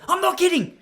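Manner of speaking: high squeaky line breaking into laughter; can't hold the postie voice for laughing; laughing through the quote. Retold or imitated. Postman insisting he's serious, quoted through laughter.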